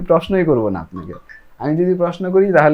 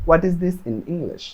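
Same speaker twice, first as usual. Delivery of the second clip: slow, every word drawn out; 2 semitones higher, much slower than usual. Shown as a demonstration. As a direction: stretch the line out for learners. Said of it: "ওই লাইনটা একটু বড় করে".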